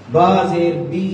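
बी with a short i, lips tilted down; Quran recitation demo. Shown as a demonstration. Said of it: "ये तरीका है". (होंठ नीचे झुकाकर छोटा बी)

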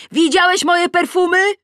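high, loud calling question; shout. A narrator's reading. Asking Adam about the perfume, shouting. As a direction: call it out far across the garden. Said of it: "ale krzyczę".

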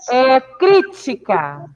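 crítica drawn out, syllables spaced; slow dictation. Shown as a demonstration. Teacher reads a word for the class to analyse, slowly. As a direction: stretch crítica so the stress is audible. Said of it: "Qual a sílaba tônica?".

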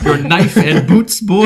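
mock grand announcement. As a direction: drag it out like a stately announcer, amused. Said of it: "No, it was like".

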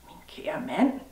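whispered, rising in disbelief; puzzled whisper. Acted. Man whispers back the woman's strange greeting, puzzled. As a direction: echo the words as if you misheard.

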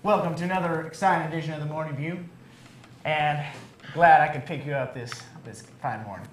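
put-on Southern radio host; Southern accent. Host welcoming listeners to the morning show, in a Southern accent. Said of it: "a good Southern accent".

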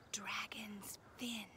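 slow, secretive whisper. A narrator's reading. Og passing Dakin the password, whispered. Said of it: "slid up close to her and whispered".

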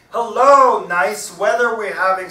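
loud, high-pitched parrot. A narrator's reading. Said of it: "signs the parrot".

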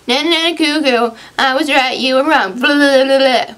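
mocking mom. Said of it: "start yelling at everybody".

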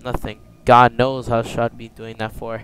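other. Acted. Game tape recorder narration.

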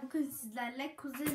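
fighting laughter on the intro; trying not to laugh; stifled giggles. Real, not acted. Giggles on retake.

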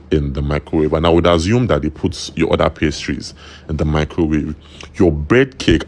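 talking while chewing fries; slightly muffled chewing speech; mouth full. Real, not acted. Seen 0: Inset speaker puts fries in mouth, talks while chewing.

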